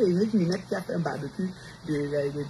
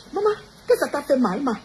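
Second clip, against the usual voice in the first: put-on crying child; 7 semitones higher, 5 dB louder than usual. Voices crying child after beating.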